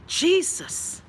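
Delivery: high, drawn-out cry of dismay; appalled exclamation. Retold or imitated. Exclaims about the current president.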